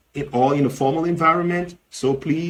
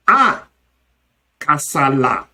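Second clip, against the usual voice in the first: alarm at looming trouble; 3 dB louder than usual. Shown as a demonstration. Reacting to a problem looming, emphatic alarm. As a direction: cry out at trouble on the way. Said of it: "see or smell problem looming, the emphatic expression".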